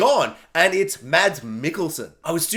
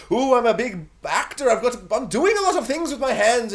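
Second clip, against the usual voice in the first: bombastic actor; 3 semitones higher than usual. Retold or imitated.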